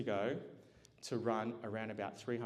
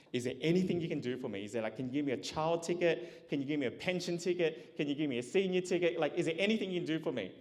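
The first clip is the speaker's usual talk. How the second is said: higher, insistent plea for any ticket; retold pleading; 5 semitones higher than usual. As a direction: plead lightly, piling up one request after another. Pleading with train ticket seller.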